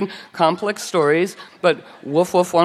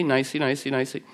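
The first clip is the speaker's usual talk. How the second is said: softer, sing-song sarcastic nicey; mock sweet; 2 semitones lower, 6 dB quieter than usual. Describing the nice town ironically, soft and sarcastic. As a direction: coo it softly with irony.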